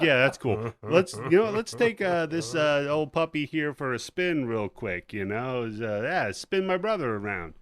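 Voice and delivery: put-on high, loud, flippant kid; bratty girl voice. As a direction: toss it off like a spoiled girl. Recap voicing the girl Mimi.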